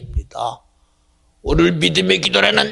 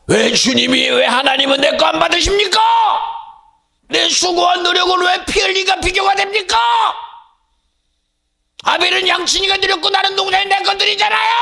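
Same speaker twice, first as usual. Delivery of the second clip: aggrieved complaint; 14 semitones higher than usual. Acted. The farmer brother complaining to God, indignant shout. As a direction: hurl it as a wounded grievance. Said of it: "라고 말하지만".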